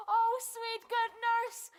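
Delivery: high and loud, bursting with eagerness; breathless excitement, voice up high; eager greeting. Acted. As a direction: rush to her, desperate for news. Juliet greeting the returning nurse.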